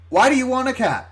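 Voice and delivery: very high-pitched puzzled question; mock bafflement. Lady still baffled, acted out.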